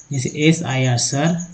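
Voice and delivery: letter by letter, then सर; slow spelling demo. Shown as a demonstration. Teacher spells words to show vowel sounds. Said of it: "आई का उच्चारण अलग-अलग".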